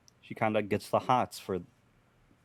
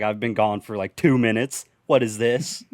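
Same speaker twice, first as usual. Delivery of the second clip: mock outrage; 7 dB louder than usual. Returning home to find it taken.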